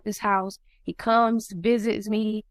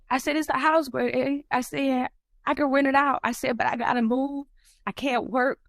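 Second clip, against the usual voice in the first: higher-pitched, upset retelling; emotional; 5 semitones higher than usual. Real, not acted. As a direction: plead your case while reliving the hurt. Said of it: "I'm gonna get emotional".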